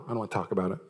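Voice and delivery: low, soft mock sulk. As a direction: act out a spouse refusing to talk. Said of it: "And then there's the sulker".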